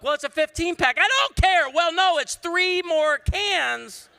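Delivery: loud, high-pitched mock argument; hammed-up bickering. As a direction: argue back at the top of your voice. Acted quarrel over Coke price.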